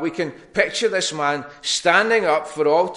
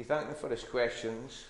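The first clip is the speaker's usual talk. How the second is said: slow quiet repeat; 2 semitones lower, 12 dB quieter than usual. Shown as a demonstration. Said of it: "then he".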